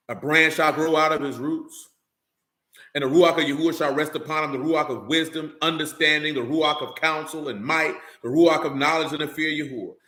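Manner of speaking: measured, solemn Bible reading; scripture reading. Acted. Preacher reading Isaiah eleven to listeners, solemn reading. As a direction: read Isaiah steadily to the congregation.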